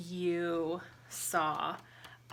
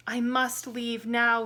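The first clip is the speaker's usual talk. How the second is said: anxious thought; 3 semitones higher, 6 dB louder than usual. Acted. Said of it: "he thought".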